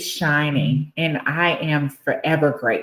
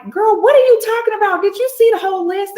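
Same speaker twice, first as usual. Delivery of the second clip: high, quick, louder disbelief; incredulous friend; 5 dB louder, much faster than usual. Retold or imitated. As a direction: fire back in playful disbelief, imitating a friend. Friend's incredulous comeback, retold.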